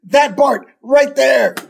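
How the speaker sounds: panicked high-pitched accusation; imitated scared kid, very high; Milhouse. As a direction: squeal on someone in mock terror. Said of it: "he gets really, really scared".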